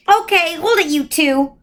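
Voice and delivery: put-on high child's voice calling out; small boy. A narrator's reading. Young brother interrupting the couple, high child's voice. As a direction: pop up from the shadows, high and bright.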